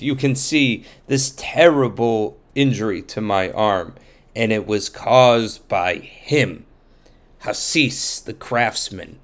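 petition the judge with a grievance; injured man pleading. Acted. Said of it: "And he said".

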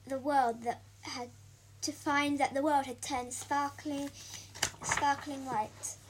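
lively picture-book storytelling; reading to children. A narrator's reading. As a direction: read it like a bedtime story. Reads picture book aloud.

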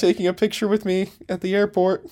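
excited shout-out. Real, not acted. Calling out to a singer.

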